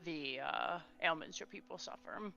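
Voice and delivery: calm and businesslike; smooth diplomat. Acted. Medius quietly assures the lady they will help.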